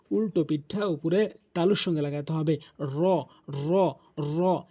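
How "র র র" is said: র said full, with rounded mouth. Shown as a demonstration. Teacher drills the letter, full rounded র. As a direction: curl the tongue tip up to the palate for র. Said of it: "মুখ গোলাকার করে উচ্চারণ করতে হবে".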